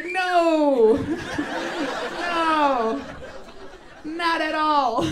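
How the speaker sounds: loud high no, laughing at the idea; mocking refusal. Comic voicing people laughing off her hope, loud and high. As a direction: laugh them down, then slow the last words. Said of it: "And they're like".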